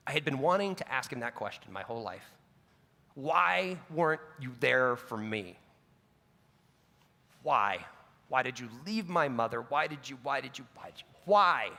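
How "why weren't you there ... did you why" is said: pleading son. Retold or imitated. Son finally confronts absent father.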